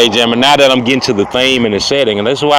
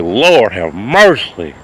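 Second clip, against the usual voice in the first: slow, drawn-out swoon; swooning woman; much slower than usual. Retold or imitated. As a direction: stretch it out like she's overwhelmed. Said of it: "she was like".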